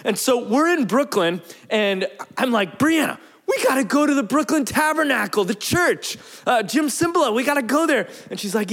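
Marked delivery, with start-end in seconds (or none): 2.8-8.1 higher, mildly excited retold plea; eager urging. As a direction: urge your wife along, pitched up. Eager retold plea to his wife.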